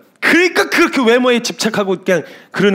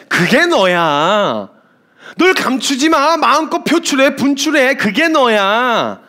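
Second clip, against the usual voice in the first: sweet coaxing; much slower than usual. Retold or imitated. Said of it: "날 더 사랑해주는 것처럼".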